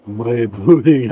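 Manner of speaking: put-on slow, drawn-out French accent on "bread pudding". Tasting buffet dessert for viewers, mock French accent. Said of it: "I'm doing a French accent now".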